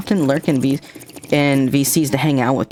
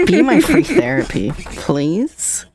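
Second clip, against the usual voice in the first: laughing plea; 10 semitones higher, much slower than usual. Real, not acted. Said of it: "begging laughingly".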